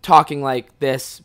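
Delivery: a touch of put-on British accent. Shown as a demonstration. Storyteller shows how he talked at parties, put-on British accent. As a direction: slip lightly into a British accent. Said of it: "that we were actually British".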